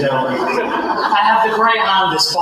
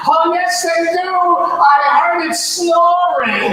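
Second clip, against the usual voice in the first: lightly voiced grandma, higher, slow punchline; a hint of a sweet old grandmother; grandma chiming in; 6 semitones higher, much slower than usual. Grandmother correcting the mother, mild old-lady voice. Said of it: "my grandmother chimed in".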